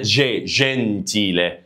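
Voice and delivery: "جي" alone, then very slow "جنتيلة"; soft g demonstrated. Shown as a demonstration. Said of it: "يتنطق جي".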